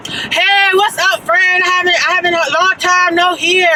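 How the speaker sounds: stretched-out, high mock greeting from a stranger; imitating an African man. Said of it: "he was an African".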